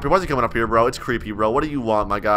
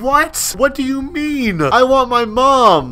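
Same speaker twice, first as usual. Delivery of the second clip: put-on scared kid; 8 semitones higher, much slower than usual. Child role scared of kidnapper.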